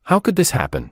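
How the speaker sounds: high, stunned disbelief; shocked. A narrator's reading. Sister hearing terrible news by phone, shocked and high. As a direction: voice jumps up in shock. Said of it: "stared at the phone in shock".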